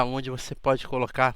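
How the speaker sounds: talking through hiccups; hiccuping mid-sentence. Real, not acted. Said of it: "tô com soluço".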